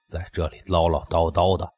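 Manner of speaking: lightly voiced menacing man; a hint of a thuggish neighbour sneering; vicious threat. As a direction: threaten him, mocking and cold. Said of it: "男人恶狠狠地说".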